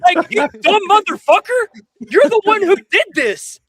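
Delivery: loud, high, heated outburst at an absent rival; angry rant. Real, not acted. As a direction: rage at him, voice up and loud.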